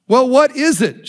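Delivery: mildly acted excited curiosity; excited question. Curious lady asking the happy pastor his secret, excited question. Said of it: "she asked excitedly".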